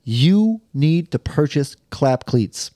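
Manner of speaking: host reading a sponsor spot. Acted. Host pitching sponsor socks to podcast listeners, ad read. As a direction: sell the socks like an ad.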